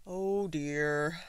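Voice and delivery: loud elephant lament; weary elephant. A narrator's reading. Elephant kept awake by the bird, lamenting. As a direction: lament it as a big, sleepy elephant.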